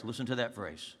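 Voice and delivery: hushed insistent repeat; dropped soft repeat. Shown as a demonstration. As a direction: say it again almost under the breath.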